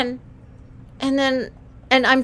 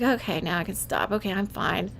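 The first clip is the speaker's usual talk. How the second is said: soft, settled sigh of relief; calmed baby; 3 semitones lower, 10 dB quieter than usual. Retold or imitated. Newborn soothed by chanting, soft and settled. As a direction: let the relief soften you. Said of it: "I was like".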